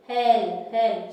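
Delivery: loud cry of help from a trapped lion; calling for help. Acted. Lion in the net calls out loudly for help. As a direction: shout it out for help. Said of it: "the lion was shouting".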